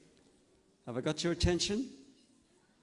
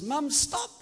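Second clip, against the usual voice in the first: put-on a girl suddenly calling her mum to halt; child calling out; 9 semitones higher than usual. Girl calls out again.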